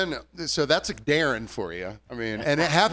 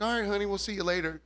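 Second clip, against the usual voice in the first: sweet goodbye; 6 semitones higher, faster than usual. Retold or imitated. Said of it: "and they're like".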